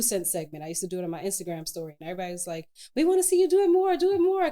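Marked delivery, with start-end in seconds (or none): 3.0-4.5 high, louder pleading chorus; raised, insistent fan voice; eager fans. Retold or imitated. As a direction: plead like keen followers. Voices followers begging for more.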